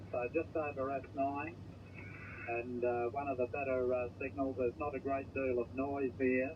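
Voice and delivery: thin, crackly voice over a radio link; crackly military radio. Real, not acted. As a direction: speak as if through a noisy radio receiver. Distant station heard over radio.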